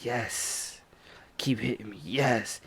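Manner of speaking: attacker enjoying the hits; creepy murmur. Retold or imitated. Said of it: "He's just going".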